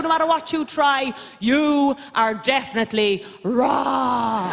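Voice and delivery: mounting list, pitch climbing to the end; lecturing mother. Retold or imitated. Mother explaining fat thin to daughter, mounting lecture. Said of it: "my mother said to me".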